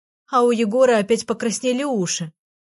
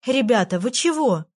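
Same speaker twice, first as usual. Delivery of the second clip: умоляюще; 2 semitones higher than usual. Acted. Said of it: "взмолилась я".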